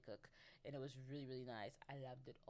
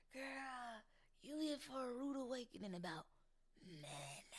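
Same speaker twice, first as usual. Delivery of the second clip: high-pitched sassy warning, dropping on the last word; mock warning; 9 semitones higher than usual. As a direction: tease her with a knowing squeal. Mock warning to the naive girl.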